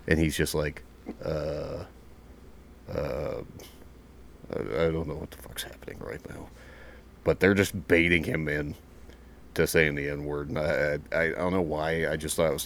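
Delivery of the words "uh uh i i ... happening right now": hesitant, quieter, halting imitation; baffled recruit. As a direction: falter quietly, long pauses between attempts. Retold baffled recruit under pressure.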